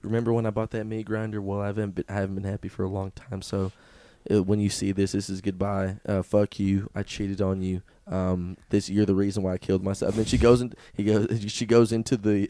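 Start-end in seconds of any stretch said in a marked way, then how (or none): 0.0-10.1 mock suicide note. Husband's suicide note read aloud.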